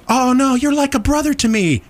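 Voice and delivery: high, sweet mock letdown; lightly voiced gentle rejection; hot friend letting down. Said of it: "what do they do?".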